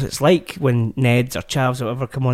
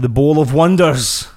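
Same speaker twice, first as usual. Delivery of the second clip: mock announcer. Announcing segment name grandly.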